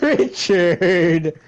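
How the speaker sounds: concerned. Acted. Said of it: "in the most concerned voice you can".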